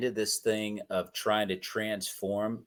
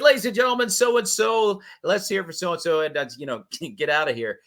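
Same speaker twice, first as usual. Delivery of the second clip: quoting emcee; 5 semitones higher than usual. Retold or imitated. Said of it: "I said".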